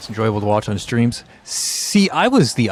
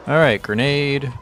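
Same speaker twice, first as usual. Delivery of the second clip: slow raised call of grenade; grenade warning yell; 5 semitones higher, slower than usual. Real, not acted.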